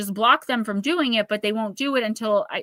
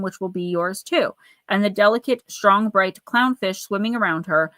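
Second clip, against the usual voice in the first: measured, deliberate read-aloud delivery; oracle card reading. Acted. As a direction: read the card's message to the client like guidance.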